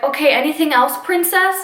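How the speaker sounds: mock-polite sarcasm, voice lifting high on princess; sarcastic. Teacher mimicking someone answering a bratty student, sarcastic. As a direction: put a sarcastic lilt on the last word. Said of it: "I'm kind of being sarcastic".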